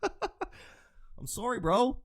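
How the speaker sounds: sorry broken up by a laugh, slow; giggling through the apology. Real, not acted. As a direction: apologize while still laughing. Laughing at own bad analogy.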